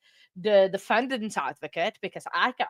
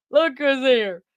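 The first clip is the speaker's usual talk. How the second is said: excited greeting; 3 semitones higher, 7 dB louder, slower than usual. Real, not acted. Greeting guest in chat.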